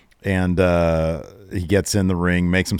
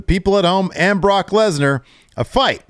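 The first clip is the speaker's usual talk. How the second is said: excited Brock; 11 semitones higher than usual. Retold or imitated. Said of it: "Brock's like".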